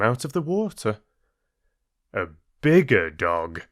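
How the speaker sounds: gentle storyteller reading a fable; story narration. A narrator's reading. Narrator reading the dog fable to listeners, storytelling voice. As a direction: tell it like a bedtime fable. Reads Aesop fable aloud.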